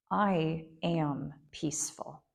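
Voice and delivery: slow, sure and emphatic statement; confident, emphatic. Shown as a demonstration. Teacher showing students a resolve, said slow and certain. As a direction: state "I am peaceful" slowly as a settled fact. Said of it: "confident, emphatic".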